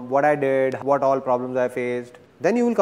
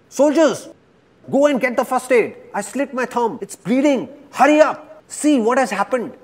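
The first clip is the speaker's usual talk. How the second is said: screaming king; 9 semitones higher than usual. Acted. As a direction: shout for the first aid in pain. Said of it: "starts screaming".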